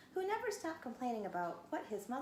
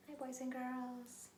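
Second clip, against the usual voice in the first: slow, odd little puppet voice; 3 semitones higher, 6 dB quieter, slower than usual. Pretend. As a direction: greet the kids as a puppet. Puppet voice greeting children.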